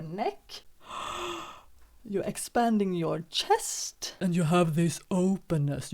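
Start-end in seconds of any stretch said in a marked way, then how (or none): 0.9-1.4 high, quiet gasping inhale; demo inhale gasp. Shown as a demonstration. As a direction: draw the breath in to open the chest. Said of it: "you can feel how you expand".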